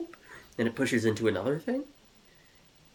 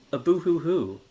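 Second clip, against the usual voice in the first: mock sobbing; 5 semitones higher, 7 dB louder than usual. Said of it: "Jeremy is so sad".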